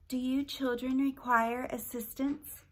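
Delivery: gentle, slow motherly voice; soft motherly voice. Acted. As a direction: offer help like a kind mother. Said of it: "said a soft motherly voice".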